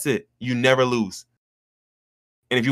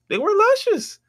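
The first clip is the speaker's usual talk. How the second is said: mock gushing; slower than usual. First take of luscious.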